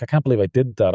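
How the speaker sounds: mild disbelieving inner voice; disbelief. Retold or imitated. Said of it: "you're like".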